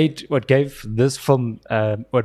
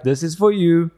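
Piers Morgan's way of speaking; 4 semitones higher than usual. Retold or imitated. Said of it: "he's like".

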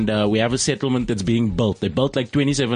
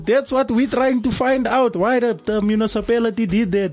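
higher, worked-up local resident voice; a fired-up resident reporting to the radio studio, pitched up; Eric Janssen; 6 semitones higher than usual. Acted. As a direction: play an excited eyewitness from the neighbourhood. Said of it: "Eric Janssen is on the line".

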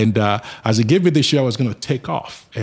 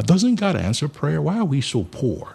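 put-on pleading child; 5 semitones higher, slower than usual. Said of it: "I go to my mom and I say".

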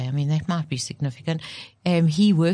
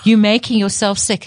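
mock scolding; 3 semitones higher, 6 dB louder than usual. Repeats the acted scolding.

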